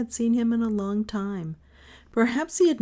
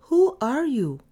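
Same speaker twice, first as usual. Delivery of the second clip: puzzled mother; 7 semitones higher, 6 dB louder than usual. A narrator's reading. Mother voiced in story.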